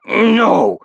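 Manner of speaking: high, loud, firm refusal; resolute shout. Acted. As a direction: plant your feet and refuse. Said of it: "his voice clear and resolute".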